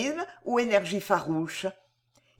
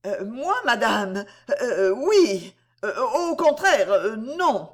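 flustered stammer; 3 dB louder, slower than usual. Acted. Stammering under the mother's questions.

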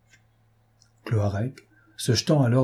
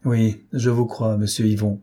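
sadly. Acted. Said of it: "dit tristement le Goffin".

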